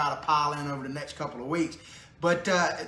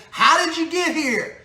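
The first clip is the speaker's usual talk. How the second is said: laughing mock question; 9 semitones higher, 5 dB louder than usual. Mock debate question to Democrats.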